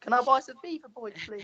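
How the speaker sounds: put-on high whiny spoilt-kid voice; bright snooty preppy girl. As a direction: beg like a spoilt rich kid. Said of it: "That's literally Lampard".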